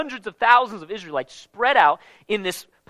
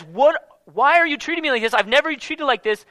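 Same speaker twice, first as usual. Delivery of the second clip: lightly voiced donkey, higher and pleading; a hint of a hurt donkey, a touch higher; mild put-on donkey voice begging its master; talking donkey; 6 semitones higher than usual. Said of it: "the donkey literally says".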